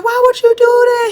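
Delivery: high, loud imitation of the adults scolding; mock scolding. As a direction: toss off the grown-ups' scolding. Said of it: "they was like".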